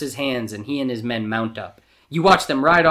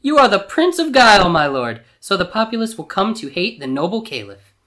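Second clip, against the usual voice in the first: high, loud, delighted servant; squeal of delight; 8 semitones higher, 6 dB louder than usual. A narrator's reading. Servant praising Jafar's cunning scheme, squealing with delight. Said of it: "gives a squeal of delight".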